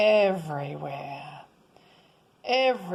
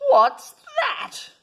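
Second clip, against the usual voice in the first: high, loud hail across the water; captain calling out; 7 dB louder than usual. Acted. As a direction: shout it down from the ship's bridge. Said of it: "called from the bridge of his ship".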